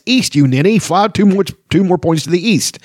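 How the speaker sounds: high-pitched exasperated yelling; old man's yell. A narrator's reading. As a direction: yell directions as a cross old man. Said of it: "yelled the old man".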